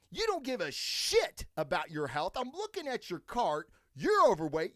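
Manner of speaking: bearded guy berating a shopper, heated; angry rant. Retold or imitated. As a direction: tear into her, escalating. Ranting at woman in line.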